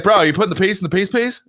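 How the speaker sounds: quick, laughing, rising imitation of the teammate; laughing mock question. Teammate's silly question, laughing through it. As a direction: rattle it off while cracking up. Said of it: "he's like".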